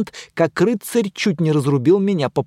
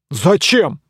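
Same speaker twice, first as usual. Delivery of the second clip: surprised; 2 semitones higher, 4 dB louder than usual. Acted. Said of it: "удивился рыцарь".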